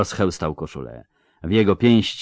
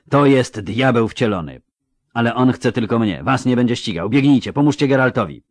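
rising urgent plea, faster at the end; 4 semitones higher, 3 dB louder than usual. Acted. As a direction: push them to run, pleading harder. Ciri urges them to flee. (pilne, coraz szybsze błaganie)

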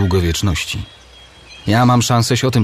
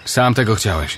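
cold. Acted. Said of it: "Rzekł zimno elf".

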